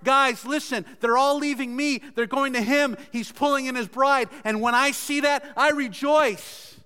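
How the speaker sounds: rejoicing. Acted. John tells followers why he rejoices, joyfully. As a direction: voice John's rejoicing in an elevated pitch. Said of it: "This is the emotion that's in John's heart".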